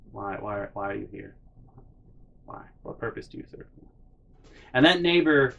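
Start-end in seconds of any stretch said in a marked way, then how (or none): 0.1-3.7 hushed whisper to the mower. Real, not acted. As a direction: ask the broken mower in a whisper.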